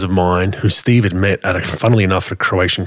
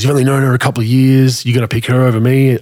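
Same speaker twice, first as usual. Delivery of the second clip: mock indignant; 5 semitones higher, 5 dB louder than usual. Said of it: "he goes".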